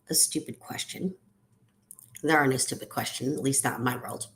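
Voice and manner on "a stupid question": whispering. Pretend. Self-deprecating listed apology.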